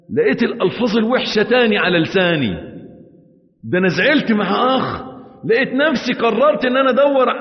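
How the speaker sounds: agitated confession. Acted. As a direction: pour it out in distress.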